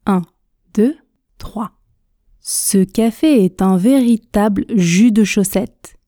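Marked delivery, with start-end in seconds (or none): 2.4-6.0 fluid, moderately paced model sentence; intermediate speed. Shown as a demonstration. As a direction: link the words smoothly, without rushing. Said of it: "Vitesse intermédiaire, objectif, fluidité". (vitesse intermédiaire, avec fluidité)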